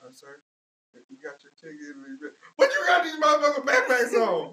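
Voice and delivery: mock guard yell. Friend acting a Walmart guard, building to a shout.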